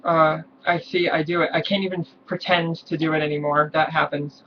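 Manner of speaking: wavering attempt at a low male voice. Shown as a demonstration. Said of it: "difficult for me to talk like a guy".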